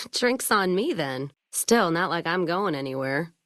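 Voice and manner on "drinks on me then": laughing. Acted. Laughs after good news.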